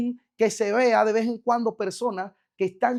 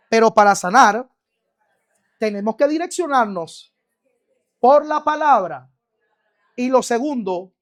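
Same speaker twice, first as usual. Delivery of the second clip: preaching loud; 6 dB louder than usual. Real, not acted. Preacher drilling points to congregation.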